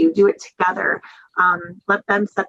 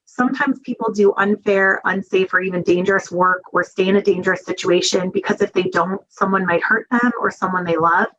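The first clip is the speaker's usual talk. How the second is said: gentle screening question. Shown as a demonstration. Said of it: "it would say something like this".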